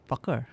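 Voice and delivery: Fakir with a hard K in the middle; deliberate falling Fakir, K fully said; K pronounced. Shown as a demonstration. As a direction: sound out the K in Fakir. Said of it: "that's how I pronounce his name".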